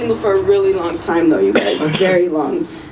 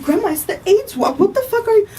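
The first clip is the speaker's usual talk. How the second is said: exasperated retort; 10 semitones higher than usual. Retold or imitated. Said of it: "I'm like".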